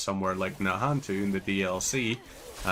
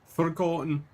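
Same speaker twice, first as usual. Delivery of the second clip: put-on higher Scottish-accented echo; 8 semitones higher than usual. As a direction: mimic the game's Scottish voice. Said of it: "they allowed the Scottish voice there to say".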